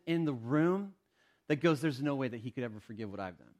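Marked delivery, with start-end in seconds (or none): 1.8-3.5 resigned doubter. Acted. Voices a doubter who feels unforgivable.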